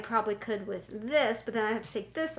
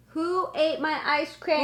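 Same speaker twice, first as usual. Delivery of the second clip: raised voice calling to someone away; yelling across the room; 5 semitones higher, slower than usual. Real, not acted.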